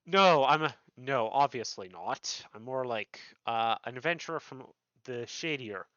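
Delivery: put-on Irish-ish accent, loud denial; lightly Irish adventurer, protesting then hesitant; Xander. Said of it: "I use an Irish-ish, Irish-ish accent for, uh, Xander".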